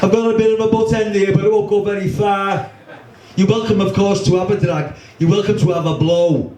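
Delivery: a cheeky Scouse kid cadging a light, lightly voiced; light young Scouse voice offering a drag; young Scouser accent. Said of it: "young Scousers these days don't seem to talk like the rest of us".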